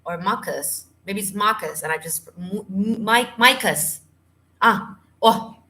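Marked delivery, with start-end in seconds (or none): 0.2-0.8 MUCUS with a short first vowel, "MUCK-us". Shown as a demonstration. Offers another pronunciation of mucus. 3.4-4.0 MUCUS said "MY-kus", raised in pitch; MUCUS as my-cus. Shown as a demonstration. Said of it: "Pronounce micus or phlegm".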